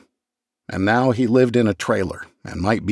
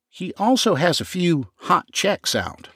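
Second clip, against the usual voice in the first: high, confiding gossip; raised voice of a nervous informant; McCracken's voice; 9 semitones higher than usual. Acted. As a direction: let it slip with relish, pitched up.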